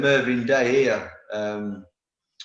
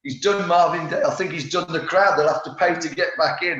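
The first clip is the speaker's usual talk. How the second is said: commentator impression; 4 semitones higher, 3 dB louder than usual. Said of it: "the commentator to go".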